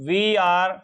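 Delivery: slow, deliberate plural drill with spaced phrases; language drill recitation. Shown as a demonstration. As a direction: pace each model sentence for learners to repeat. Models plural drill sentences. (धीमे, ठहर-ठहर कर अभ्यास वाक्य)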